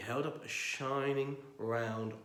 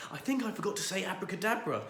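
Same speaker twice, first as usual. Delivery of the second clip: faltering; 8 semitones higher, faster than usual. Acted. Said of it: "faltered Paddington".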